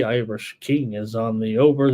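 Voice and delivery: put-on light Irish accent on a betting pick; a hint of Irish lilt, playful. Host calling out a viewer's pick in a light Irish accent. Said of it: "That was an Irish accent I just did".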